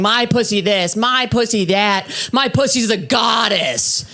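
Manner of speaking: a hint of a boastful proclaimer; mock broadcasting. Girls broadcasting about their bodies, lightly mocked boasting. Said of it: "those girls who's broadcasting".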